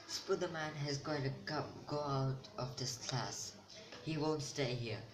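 retold line, lightly dramatized; mock dramatic. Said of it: "I'm just trying to make it dramatic".

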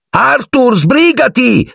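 high shriek of his name; wife shrieking at husband as the train leaves, high call. Acted. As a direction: scream at him to hurry. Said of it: "Strillò la signora Weasley".

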